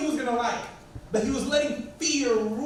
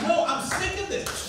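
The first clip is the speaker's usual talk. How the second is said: frustrated; 6 semitones higher than usual. Retold or imitated.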